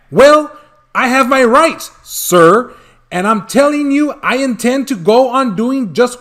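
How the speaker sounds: yelling. Acted. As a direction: yell back in defiance. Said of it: "I yelled at the Lorax".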